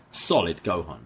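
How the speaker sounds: ordinary delivery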